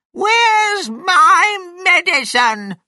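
very high, slow screech of a shout; angry shout. A narrator's reading. Grandma demands her medicine from George, shouted. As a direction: holler it high and drawn out, demanding. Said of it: "his grandma shouted".

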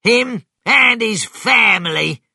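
high, loud, vengeful shout; angry farmer shouting a threat. Acted. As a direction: spit out each word in anger. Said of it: "Bean said angrily".

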